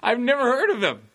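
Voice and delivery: speaking through high laughter; laughing. Real, not acted. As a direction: giggle the words out. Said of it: "I'm only laughing".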